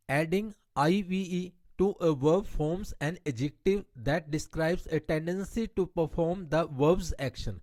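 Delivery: slow, deliberate reading of an English grammar rule. Shown as a demonstration. Teacher reading a grammar rule to her Hindi-speaking class, slow and deliberate. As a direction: spell out the rule word by word for students.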